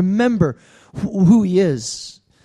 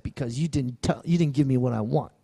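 put-on sulky child; 6 semitones lower, 8 dB quieter than usual. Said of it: "He's like".

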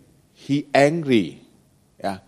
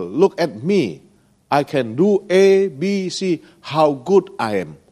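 boasting; 2 semitones higher than usual. Retold or imitated. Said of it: "He want to tell people".

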